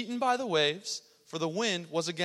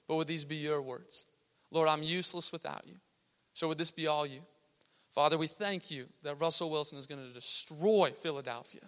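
slightly lowered, even praying voice; leading a prayer; 3 semitones lower, 3 dB quieter than usual. Real, not acted. Youth preacher to God before the message, prayerful. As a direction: pray sincerely in a subdued tone.

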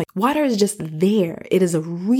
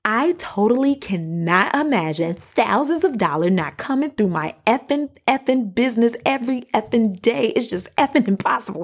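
higher-pitched, emphatic retelling with punchy EFFINGs; brash, cussing quote; 4 semitones higher than usual. Retold or imitated. Quoting a bold money coach who cusses like a sailor, brash and emphatic. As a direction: imitate her ballsy, cussing delivery. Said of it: "But this is how she say it".

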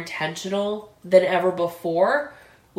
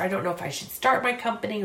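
hesitant, quick; much faster than usual. Retold or imitated. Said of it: "if you are maybe just going".

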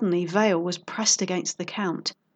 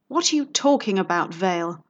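annoyed. Acted. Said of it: "now as angry as he was embarrassed".

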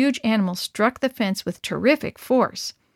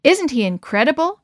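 awed; 5 semitones higher, 3 dB louder than usual. Acted. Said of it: "Harry asked in awe".

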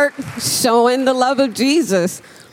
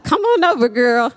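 welcoming hostess; 4 semitones higher than usual. Retold or imitated. Friend welcoming guests.

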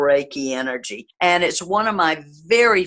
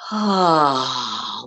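audible exhale; 2 semitones lower than usual. Shown as a demonstration. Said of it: "And again".

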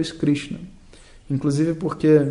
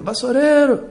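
much higher, louder yell of "Vassoureiro!"; yell from the window; 9 semitones higher, 5 dB louder than usual. Pretend. Neighbor yells from the window to a broom seller, loud yell. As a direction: hail the broom seller down the street. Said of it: "da janela e grita".

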